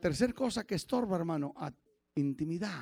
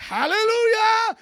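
mock hallelujah; 12 dB louder, much slower than usual. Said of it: "cualquiera dice".

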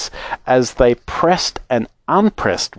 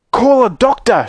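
high-pitched fatherly call for help; urgent shout; 9 semitones higher than usual. Acted. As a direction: call out in alarm. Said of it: "shouted Mister Beauregard".

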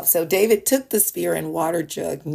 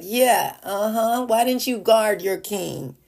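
lightly mocking sarcasm, a little raised; imitated sarcastic needling; 3 semitones higher than usual. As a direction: put on a sarcastic taunt. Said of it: "Sarcastic, like".

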